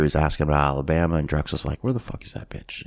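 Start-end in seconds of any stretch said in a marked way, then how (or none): 1.8-2.8 whispered menace, no voice; mock whisper. Pimp whispering to the husband, a menacing whisper. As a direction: hiss it like a threat in his ear. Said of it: "Marty just kinda whispers in his ear".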